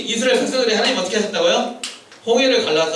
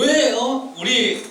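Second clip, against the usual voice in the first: mildly indignant mock grumble; acted complaining; 4 semitones higher than usual. Preacher voicing a student blaming the teacher, mock complaint. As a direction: whine in protest, slightly hammed-up. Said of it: "이렇게 불평할 수 있다는 거죠".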